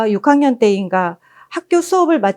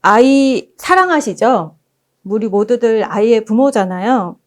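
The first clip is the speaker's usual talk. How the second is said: ordinary talk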